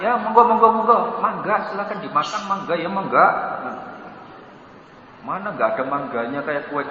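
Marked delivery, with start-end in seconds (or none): 0.0-3.3 lightly voiced host, soft and coaxing; mock host inviting. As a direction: coax the guests to eat. Tuan rumah mempersilakan tamu makan. (tuan rumah mempersilakan dengan lembut)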